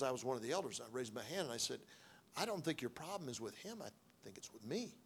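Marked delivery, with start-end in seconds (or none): 2.4-5.0 quiet confession. Retold or imitated.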